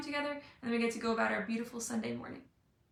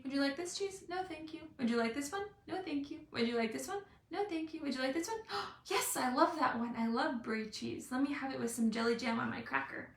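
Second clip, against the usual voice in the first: pleasant cheese lady; 2 semitones higher, 3 dB quieter than usual. Retold or imitated. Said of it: "the lady that comes around pleasantly".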